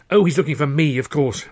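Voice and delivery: mildly resigned, sighing; sighed. Acted. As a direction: let it out with a touch of despair. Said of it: "Rafe Luscombe sighed".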